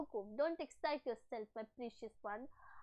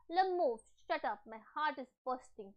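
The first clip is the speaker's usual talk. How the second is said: slow, louder shouted line; reading a shout; 5 dB louder, much slower than usual. Acted. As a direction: bark the order to shut up. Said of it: "एकदम से चिल्ला के बोलता है shut up". (चिल्लाकर पढ़ा गया)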